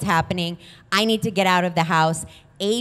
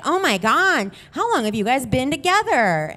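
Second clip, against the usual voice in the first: higher-pitched mock curiosity; feigned friendly interest; 5 semitones higher than usual. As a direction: draw them out with fake sweetness. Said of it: "real friendly".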